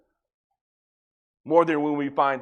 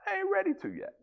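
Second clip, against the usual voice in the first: unvoiced whisper, higher; 10 dB quieter, faster than usual. God whispering back to the worried believer. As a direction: breathe it like a secret. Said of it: "he's looking at you going".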